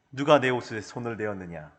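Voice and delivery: low, soft voice as Jesus asking; a low, slightly hushed Jesus asking. Retold or imitated. Preacher voicing Jesus asking who touched him, low and soft. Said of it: "이렇게 얘기하셨어요".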